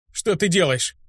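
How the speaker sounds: слабый, чуть повышенный голос; спроси, едва владея голосом; непослушный голос. A narrator's reading. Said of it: "спросил я непослушным голосом". (непослушный, сдавленный болью голос)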